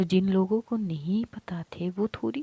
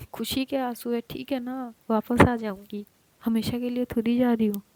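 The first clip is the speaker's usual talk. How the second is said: higher, louder, laughing through tears; tearful cheer; 5 semitones higher, 6 dB louder than usual. Acted. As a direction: brighten up to stop her crying. Sister-in-law comforting crying girl.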